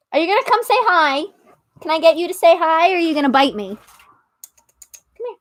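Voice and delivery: high, quick coaxing voice for the cat; pet talk. Real, not acted. Coaxing her cat to say hi, in a high quick pet voice. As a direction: coax the cat to come over.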